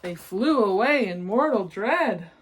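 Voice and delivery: lilting rhymed read-aloud; storybook narration. A narrator's reading. Reading a rhyming picture book to children, lilting storyteller voice. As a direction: read the verses like a bedtime book.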